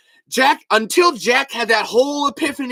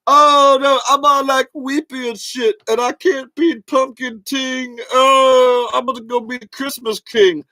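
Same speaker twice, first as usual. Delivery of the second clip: whiny mock Jack; 5 semitones higher, 3 dB louder than usual. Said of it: "But Jack is like".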